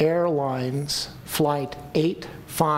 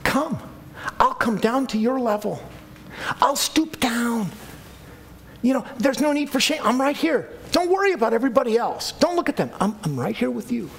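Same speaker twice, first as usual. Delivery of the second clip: Jesus, gently; 5 semitones higher than usual. Acted. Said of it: "he's saying".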